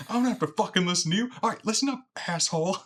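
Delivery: quoting Seth Rogen. Retold or imitated. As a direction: rattle it off like a cocky cop. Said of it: "It's like".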